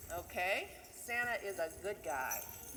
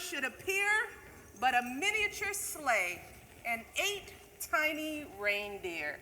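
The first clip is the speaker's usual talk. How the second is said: lively storybook reading of a Christmas poem; a teacher reading The Night Before Christmas to the class; reading to children; 3 semitones higher than usual. Acted. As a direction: read it like a bedtime story to kids.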